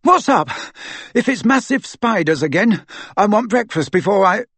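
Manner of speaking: high, loud, out-of-breath complaint; panting. A narrator's reading. Ron arrives upstairs wanting breakfast, panting. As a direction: pant from running up the stairs. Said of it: "Ron appeared panting a minute later".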